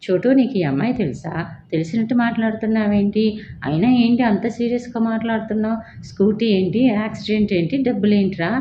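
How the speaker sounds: mildly indignant questioning, imitated; a touch of annoyance in retold questions; retold serious challenge. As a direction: act out a stern demand for answers. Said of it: "సీరియస్గా వెనక్కి తిరిగి".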